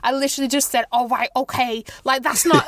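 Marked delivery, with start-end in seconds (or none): 0.9-1.8 all right okay in a southern lilt; light Southern English twang; southern accent. Retold or imitated. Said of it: "that's not my actual accent".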